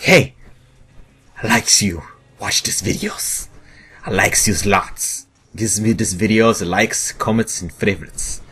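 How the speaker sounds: high, slow, goofy put-on voice with a whispered bit; silly crush voice. Vlogger imagining a cousin's crush pitching his videos, in a high goofy voice. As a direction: play a dopey lovestruck kid talking to a crush. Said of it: "I don't know why I talk like that".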